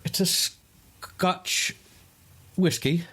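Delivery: high, hushed mock Scottish; mock Scottish reply about the whiskey; put-on Scottish. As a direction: answer like a hammed-up Scotsman. Answers in put-on voice.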